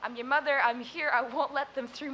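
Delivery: reassuring mother. Retold or imitated. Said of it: "turned and said".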